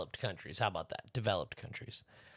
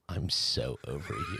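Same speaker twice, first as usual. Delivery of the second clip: mock dramatic breakup; 9 semitones lower, 3 dB quieter, slower than usual. S1 joins mock quarrel.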